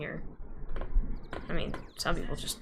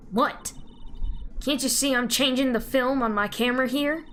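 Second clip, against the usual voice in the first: Southern woman; 2 semitones higher than usual. Acted.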